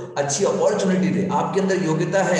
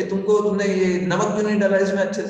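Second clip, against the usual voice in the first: mother-in-law's scolding, pitched higher; mild mock scolding; 4 semitones higher, faster than usual. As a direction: lightly act out telling a daughter off. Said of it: "तो वो बेटी को डांटेगी". (हल्की बनावटी डांट, ऊँचे सुर में)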